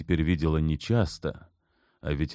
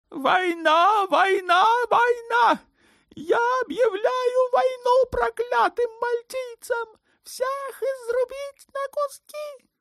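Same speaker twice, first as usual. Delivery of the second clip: much higher, shouting war cries; raging cries; slower than usual. A narrator's reading. Sultan raving in the corridor, shouting for war. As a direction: rave down the corridor. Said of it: "слышали его крики".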